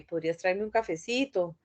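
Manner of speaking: soft polite favor; polite request. Shown as a demonstration. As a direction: ask kindly, no pressure. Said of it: "ya es otra forma".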